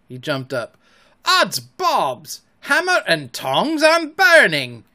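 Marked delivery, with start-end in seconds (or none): 1.3-4.8 rising panicked cry, high and loud; startled pirate yelling as he leaps up; hot-seat panic. A narrator's reading. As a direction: yelp it as the seat burns him.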